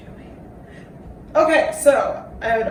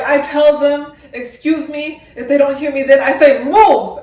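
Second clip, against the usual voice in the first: bossy quote; 4 semitones higher, 9 dB louder than usual. Retold or imitated. Quoting assertive redhead dancer.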